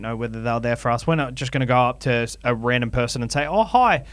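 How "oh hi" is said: chirpy high friendly host voice; mock polite greeting. Hosts greeting a random punter at their event, bright and overly polite.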